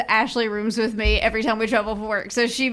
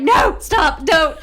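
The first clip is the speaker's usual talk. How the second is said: mock yelling at alarm; 5 semitones higher, 5 dB louder than usual. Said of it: "I'm like".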